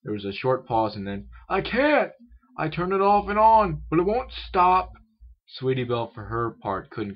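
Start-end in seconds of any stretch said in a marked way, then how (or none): 1.5-4.9 loud, high, desperate yelling; alarmed shout. A narrator's reading. Helper calling from another room about runaway machine, alarmed shout. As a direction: holler the bad news, high and loud.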